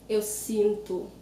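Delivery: slow sinto ending in oo; final O as U. Shown as a demonstration. Teacher shows word-final O, slow sinto ending in U. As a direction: say sinto as SEEN-too, O turned to oo. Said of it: "notice how I pronounce the O".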